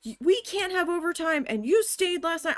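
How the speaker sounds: high-pitched mock scolding; imitated screaming. Office manager berating worker over overtime, imitated screaming. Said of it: "Don't be screaming at me".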